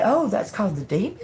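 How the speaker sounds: mock French. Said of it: "And they're like".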